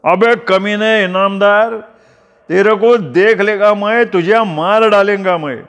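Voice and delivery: furious dragged-away yell; shouting curses. A narrator's reading. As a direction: spit the threats as you are dragged off. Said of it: "थुंकत ओरडतच होता".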